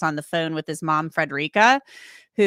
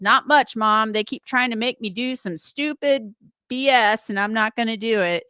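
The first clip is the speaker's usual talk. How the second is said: Billy voice; 5 semitones higher than usual. Retold or imitated. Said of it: "I'll do it in my Billy voice".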